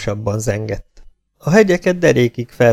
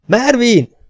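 high, loud screeched call; rusty-clock cry; 13 semitones higher, 5 dB louder than usual. A narrator's reading. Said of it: "rozsdás fali órák ütőszerkezetére emlékeztetett a kiáltás".

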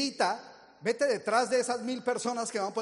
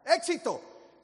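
higher call across a room; 7 semitones higher, 3 dB louder, much slower than usual. Retold or imitated. Stranger calling across the restaurant, high call.

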